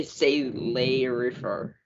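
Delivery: "Say lay refer" read as plain English words; anglicized French. Shown as a demonstration. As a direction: say "Say lay refer" slowly, without a French accent. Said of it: "I say".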